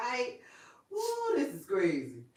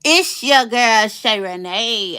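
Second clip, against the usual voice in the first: vlog intro; 12 dB louder, slower than usual. Acted.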